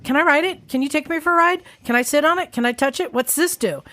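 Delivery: a hint of an insistent little kid; relentless kid. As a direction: imitate a kid firing off eager questions. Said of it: "I was the relentless".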